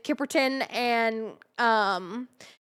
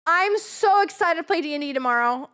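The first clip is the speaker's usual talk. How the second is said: excited; 4 semitones higher than usual. Real, not acted. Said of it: "Oh my god".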